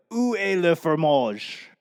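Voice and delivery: lightly attempted French accent; learner's careful French question; amateur French. Shown as a demonstration. Showing listeners the failed app answer, amateur French. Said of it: "my lack of French accent".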